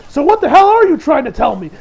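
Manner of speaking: imitating an irritated commander; annoyed commander. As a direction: snap at him like an impatient officer. Commander snaps at Reiner.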